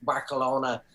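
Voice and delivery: mock local Spanish accent on "Barcelona"; put-on Spanish accent. Shown as a demonstration. Mocking people who talk like locals, put-on Spanish accent. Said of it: "put on different accents for different".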